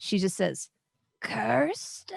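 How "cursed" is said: very croaky, pitched-up croak, sounds long unused. Voicing a doll character speaking after long silence: very croaky unused voice. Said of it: "a voice that almost hasn't talked for a long time".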